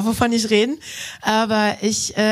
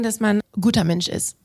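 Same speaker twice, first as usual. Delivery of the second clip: usual speaking voice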